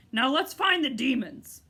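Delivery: loud, fierce boast; fierce cry. A narrator's reading. Humbug boasting fiercely, loud. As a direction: brandish the words fiercely.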